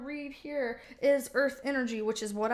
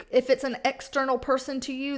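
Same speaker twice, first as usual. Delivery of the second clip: normal talking voice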